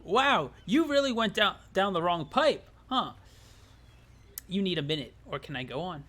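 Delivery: a hint of a mocking narrator; lightly voiced sly narrator; teasing narrator. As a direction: needle the player like a sly narrator. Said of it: "I guess this is the narrator".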